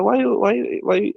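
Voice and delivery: high-pitched imitation of a Persian club owner's accent; Jamie Masada Persian accent. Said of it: "by the way, he's Persian".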